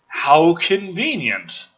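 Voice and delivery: slow, dry sarcasm; slow sarcastic jab at the script. Real, not acted. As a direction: drag it out, deadpan mocking. Sarcastic aside on plot hole.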